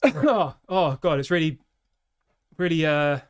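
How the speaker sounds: real breathlessness, halting; out of breath. Real, not acted. Streamer thrown by the run upstairs, still out of breath. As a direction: break off to recover your breath. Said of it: "now I've caught my breath".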